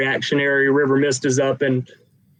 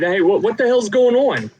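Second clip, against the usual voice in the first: high, louder startled demand; high alarmed voice; 8 semitones higher, 4 dB louder than usual. Acted. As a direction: voice River Mist, alarmed. River Mist echoes alarm.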